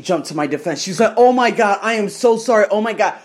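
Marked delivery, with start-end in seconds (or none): 1.2-3.1 mildly panicked imitation, slightly raised pitch; hurried, mock-anxious reassurances; very scared. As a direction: imitate a flustered apology. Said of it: "she got very scared".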